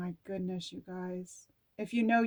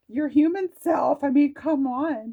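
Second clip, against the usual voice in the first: high, loud laughing exclamation; 6 semitones higher, 8 dB louder than usual. Real, not acted. Reader laughing at the card's words, high and loud. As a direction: cackle in delighted recognition. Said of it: "This is why I'm laughing".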